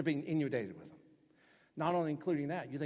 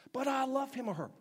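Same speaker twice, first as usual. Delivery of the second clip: whiny excuse; 11 semitones higher, 3 dB louder than usual. Retold or imitated. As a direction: whine it like a caught teen. Imitated excuse.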